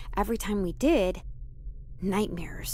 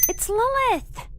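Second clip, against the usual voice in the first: high, slow insistence on the name; indignant correction; 11 semitones higher, 4 dB louder, slower than usual. Acted. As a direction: correct her sharply and firmly.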